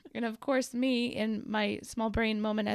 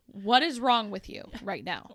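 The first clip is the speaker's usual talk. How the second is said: mock outburst at a bad driver, louder; retold road rage; 5 dB louder than usual. Venting at another driver from the car, retold road rage. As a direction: let it out at the driver, half in fun. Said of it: "I just let it out".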